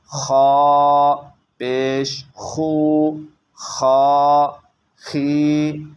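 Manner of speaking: careful primer reading, each sound set apart; slow spelling drill. Shown as a demonstration. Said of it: "ایک اور میں پڑھ دیتا ہوں".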